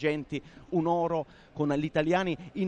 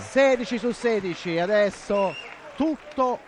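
excited commentary; 5 semitones higher, 3 dB louder than usual. Real, not acted. Commentator calls the score again.

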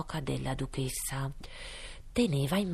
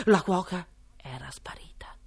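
ordinary delivery

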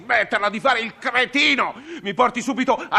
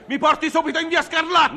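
higher, shouted order to the driver; furious passenger barks at the cabbie; angry shout; 5 semitones higher than usual. Acted. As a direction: yell the address, fed up.

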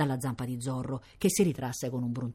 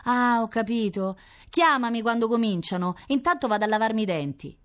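put-on higher child's voice; lightly voiced little sister, pitched up; little girl; 7 semitones higher, 3 dB louder than usual. A narrator's reading. Little sister leaving to brush her teeth, high childlike voice.

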